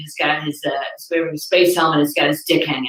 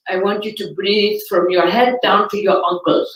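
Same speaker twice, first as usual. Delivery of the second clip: mock meditation teacher; 2 semitones higher than usual. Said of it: "she's like".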